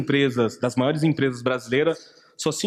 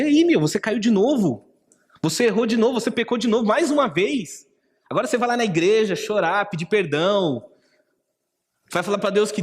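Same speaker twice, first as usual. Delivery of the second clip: higher, mocking and scornful, rubbing in each failure; mocking accuser; 5 semitones higher than usual. Preacher voicing the enemy's voice mocking a repeat sinner, high scornful taunt. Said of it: "Quantas vezes eu ouvi essa voz no meu coração".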